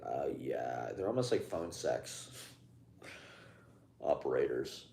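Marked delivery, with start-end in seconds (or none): 0.0-0.9 low, soft bored drawl; blasé. Retold or imitated. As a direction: sound utterly unbothered. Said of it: "so blasé".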